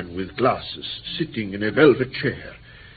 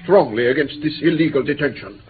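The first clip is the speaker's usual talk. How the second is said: louder, rising to a high warning; indignant protest; 4 semitones higher, 3 dB louder than usual. Acted. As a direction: protest hotly and threaten them with the police. Captive protests his detention.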